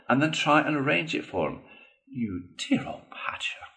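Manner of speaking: lightly voiced Toad, mildly sly; Toad being obliging. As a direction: Toad humouring his friend.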